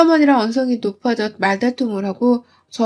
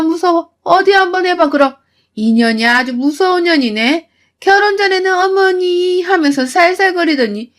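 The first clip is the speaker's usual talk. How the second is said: mocking mother-in-law; 2 semitones higher than usual. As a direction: taunt her with exaggerated mock fear. 시어머니가 비꼬며 조롱함. (높은 목소리로 비꼬며 조롱하는 시어머니)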